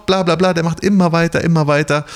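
Gerd ranting. Retold or imitated. Gerd's rant goes on.

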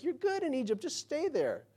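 lightly tossed-off, high-pitched quote; mock casual reassurance. Mock quote of God, then denied.

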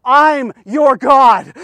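slow, weighty divine declaration; voice of God. Retold or imitated. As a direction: declare it slowly with God's authority. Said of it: "God was saying this".

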